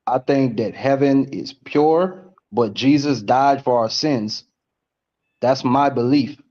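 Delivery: slow, spaced-out high speech; stoned. Real, not acted. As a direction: drift through it slowly. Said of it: "I'm really high right now".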